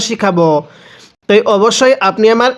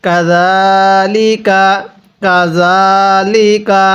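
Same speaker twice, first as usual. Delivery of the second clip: slow, drawn-out Quranic chant; measured tajweed recitation; much slower than usual. Shown as a demonstration. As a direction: recite each word slowly and melodically.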